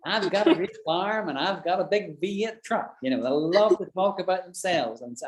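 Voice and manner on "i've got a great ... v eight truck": boastful American. Retold or imitated. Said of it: "unlike the Americans".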